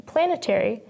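"planetary" with the weight on "plan"; strong "plan" at the start of "planetary"; stress on first syllable. Shown as a demonstration. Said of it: "the first syllable stressed".

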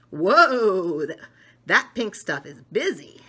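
loud amazed whoa; be wowed by the busy brain. Acted. Book character amazed at the brain.

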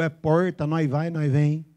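porta with retroflex countryside R; São Paulo interior caipira; mock-rustic caipira speech; caipira accent. Shown as a demonstration. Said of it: "Eu sou do interior".

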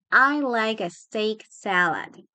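slow, stretched words; careful slow teaching repetition; slow model. Shown as a demonstration. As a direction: draw the order out for learners. Teacher models phrase slowly.

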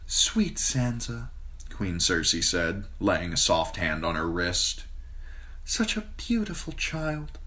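put-on a queen cooing to a frightened girl; queen Cersei, sweet and smooth. A narrator's reading. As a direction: Cersei soothing Sansa in a honeyed voice. Narrator voices Queen Cersei.

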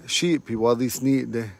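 Shipi wadisnide, each syllable slow and clear; slow teaching demo. Shown as a demonstration. Teacher repeating a phrase for students, slow. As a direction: say Shipi wadisnide slowly for learners. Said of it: "And you're late again".

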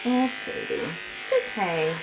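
gentle reassurance to an animal; soothing. Real, not acted. Groomer comforting the dog on the table, soothing. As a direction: coo softly to settle a nervous dog.

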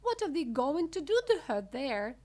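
high, loud alarmed question; cry out. A narrator's reading. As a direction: ask it as a frantic mother. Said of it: "cried Missus Beauregard".

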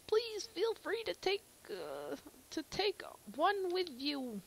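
a hint of a character voice. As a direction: read it as a game villager. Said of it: "same voice for everyone".

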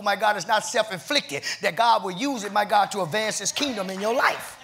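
driving, rhythmic sermon delivery; fervent preaching. Real, not acted. Pastor teaching the church about needed battles, fervent preaching. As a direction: press the congregation onward in rolling phrases.

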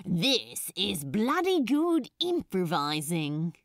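cocky shout over the music. Acted. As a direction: yell it proudly over the noise. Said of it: "he shouted over the band".

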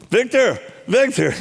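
calling a name high and sharp; urgent calling out. Retold or imitated. Pastor bursting in, calling Victor high in alarm. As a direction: call his name in alarm, pitched high.

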